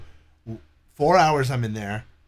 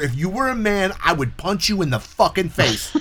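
angry tirade; 5 semitones higher than usual. Retold or imitated. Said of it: "Fucking both barrels".

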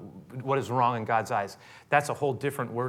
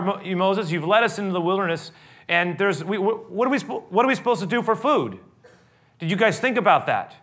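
higher, louder griping at Moses; an acted complaint, pitched up and pushy; complaining crowd; 7 semitones higher, 4 dB louder than usual. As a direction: whine at the leader who forgot food.

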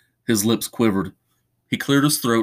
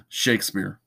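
scoffing; 3 dB quieter than usual. Acted. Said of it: "he scoffed".

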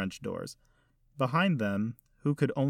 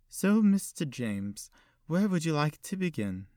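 put-on elderly lady; 6 semitones higher, 3 dB louder than usual. Old hostess voiced by narrator.

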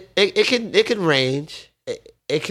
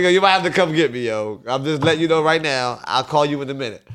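urgent retold call. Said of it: "I'm like".

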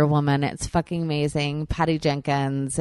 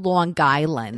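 exaggerated Long Island pronunciation; Long Island accent; 4 dB louder, slower than usual. Telling co-host where the actress isn't from, broad Long Island accent. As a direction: say "Long Island" with a hard G joining the words. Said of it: "she doesn't say Long Island".

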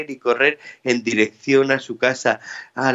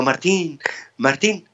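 villagers calling his name; 5 semitones higher, slower than usual. Acted. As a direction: call his name across the square. Villagers call out to Martín.

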